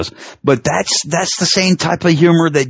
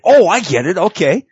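lightly acted dawning realization, higher pitch; crowd catching on; 5 semitones higher than usual. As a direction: play the audience finally getting the joke. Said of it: "then people got it".

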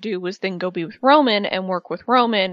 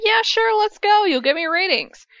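imitating Vince; 10 semitones higher than usual. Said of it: "And Vince was like".

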